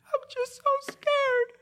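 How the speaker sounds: put-on very high, slow, squeaky child voice; tiny scared boy voice; squeaky little boy. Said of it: "He said".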